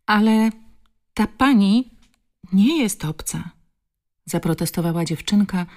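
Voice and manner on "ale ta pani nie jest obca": put-on small girl faltering, pausing between words; halting protest. A narrator's reading. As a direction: protest in a high voice, stopping after each phrase. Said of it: "zacinając się przy każdym słowie". (dziecięcy protest, zacinanie się)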